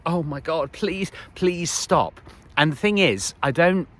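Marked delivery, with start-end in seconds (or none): 0.1-2.2 higher, drawn-out mock plea; mock pleading. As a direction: beg them to stop, stretching each please. Voices her pleading thought while watching.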